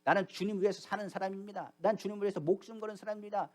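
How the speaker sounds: acted bold vow of loyalty; preacher voicing a self-assured disciple; confident declaration. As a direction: declare it proudly, with firm emphasis. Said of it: "당당히 말하기를".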